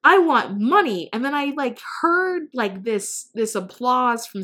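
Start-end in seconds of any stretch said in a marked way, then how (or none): 0.0-1.1 louder and higher, firm and owning it; with conviction. Retold or imitated. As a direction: shoulders squared, declare it out loud. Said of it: "squared my shoulders and I was like".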